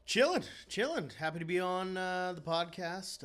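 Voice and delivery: high smooth R&B crooner voice; impression of an R&B singer. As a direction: croon it like an R&B singer. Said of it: "my R&B singer impression".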